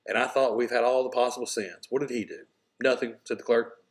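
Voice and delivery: read-aloud narration with lightly voiced God and clerk; lightly dramatized parable reading; story reading to class. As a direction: tell the parable to students, giving the dialogue a little life. Teacher reads story with character lines.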